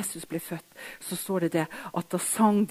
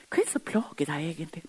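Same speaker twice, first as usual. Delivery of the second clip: fast whisper, much softer; hushed bedside question; 3 semitones lower, 7 dB quieter, faster than usual. Retold or imitated. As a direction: lean in and whisper it.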